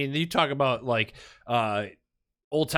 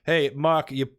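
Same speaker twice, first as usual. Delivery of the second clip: put-on a light New York accent, scolding; 3 semitones higher, 5 dB louder than usual. Mocking scribe scolds coworker in New York accent. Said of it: "New York accent is coming through here".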